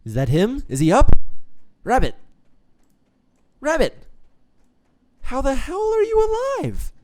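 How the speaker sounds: high, loud hammed-up joy with a laugh; overjoyed reunion. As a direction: shriek in delighted disbelief. Rabbit unexpectedly alive.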